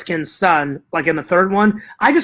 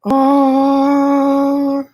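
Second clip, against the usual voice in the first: knowing excitement; 8 semitones higher, 3 dB louder than usual. Real, not acted. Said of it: "you guys already know where I'm going with this".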